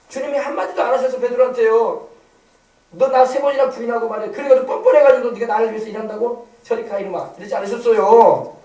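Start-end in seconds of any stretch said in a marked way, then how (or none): 2.9-7.3 scolding. Acted. Imagined rebuke Jesus did not give.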